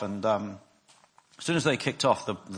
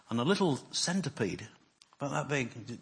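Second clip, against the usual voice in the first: ordinary talk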